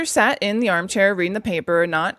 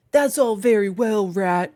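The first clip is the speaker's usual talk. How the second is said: lightly voiced Badger; slower than usual. A narrator's reading. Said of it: "said the Badger presently".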